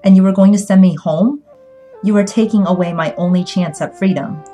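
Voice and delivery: hurt, heated protest; outraged accusation. A narrator's reading. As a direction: lash out at a betrayal. Betrayed daughter accuses Sterling Promise.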